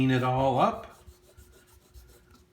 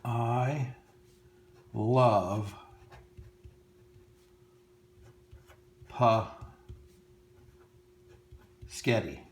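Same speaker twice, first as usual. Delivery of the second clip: snake voice; much slower than usual. Acted. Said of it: "He's going to be saying".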